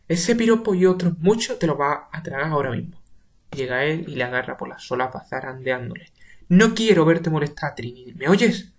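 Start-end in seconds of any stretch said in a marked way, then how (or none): 0.1-3.0 angry threat, a touch louder; seething threat; furious. Acted. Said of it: "sube rabioso mientras va diciendo". 6.5-8.7 higher, louder angry warning; raised angry threat. Acted. Grabbing Pepe by lapels.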